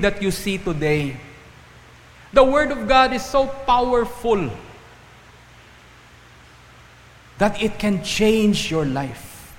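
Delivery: high, slow, emphatic pulpit delivery; forceful preaching. Real, not acted. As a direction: proclaim it slowly with ringing conviction. Preacher proclaims the key point.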